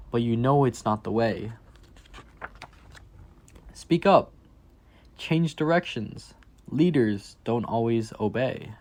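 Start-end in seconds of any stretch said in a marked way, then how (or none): 3.7-6.3 emphatic call. Acted. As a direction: urge the child to speak out. Refrain urging kids to speak.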